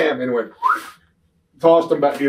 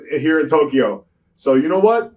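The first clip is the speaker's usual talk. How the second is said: angry outburst; 6 semitones higher, 6 dB louder than usual. Retold or imitated. Retold backstage confrontation with agent.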